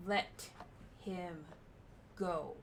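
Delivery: slow, spaced-out threat with pauses. Acted. Kanan threatening Sona to release Vatar, slow and menacing. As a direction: let each word land as a warning. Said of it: "more threatening".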